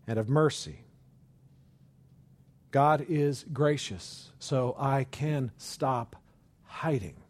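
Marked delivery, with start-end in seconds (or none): 2.7-7.1 slow, deliberate, each word weighed; slow earnest statement. Acted. Preacher affirming grace to the congregation, slow and earnest. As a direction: state it slowly as a conviction. Repeated line, first take.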